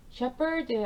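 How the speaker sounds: "shepherd" as shep-erd, silent h, no f sound; pronunciation demo. Shown as a demonstration. Teacher showing students "shepherd" with a silent h. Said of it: "H 묵음으로 생각하시고 P 소리만".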